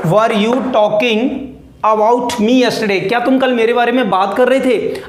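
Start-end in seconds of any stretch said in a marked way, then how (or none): 0.1-3.1 very slow, pausing between phrases; word by word. Shown as a demonstration. Teacher breaking the sentence into chunks for students, very slow. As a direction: break it into pieces for learners to repeat. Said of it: "क्या लिखा है मैंने यहाँ पे?".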